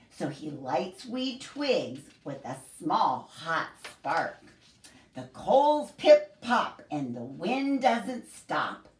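slow, sing-song picture book reading; storybook voice for a group of kids; reading to children. Acted. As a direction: read it like story time for little ones. Reads picture book aloud to children.

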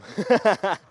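a high, loud laugh bursting out; loud burst of laughter. Real, not acted. Vlogger cracking up after joking he's scared, loud laugh. Laughs at his own joke.

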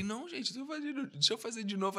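high, soft eager plea; pleading to redo. Retold or imitated. Actor begging the crew for another take, high soft plea.

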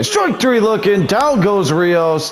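excited strikeout call. Acted. Announcer calling strike three, excited. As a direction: punch out the call like a broadcaster.

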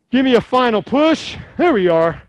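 high, loud cheering; excited. Real, not acted. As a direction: fire up the class. Instructor pushing class hard.

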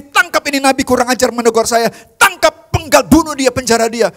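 a hint of a furious king ordering arrests; mock-bark at the guards; angry king's command. King David imagined ordering the prophet seized, mock anger. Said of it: "Dia bisa bilang begini".

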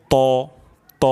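heavy held ত; tongue-tip heavy t. Shown as a demonstration. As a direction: say ত with tongue tip at the front teeth's root. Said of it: "গোড়াতে স্পর্শ করলে তটি আরও সুন্দর হবে". (জিহ্বার আগা দাঁতের গোড়ায় লাগিয়ে ত)

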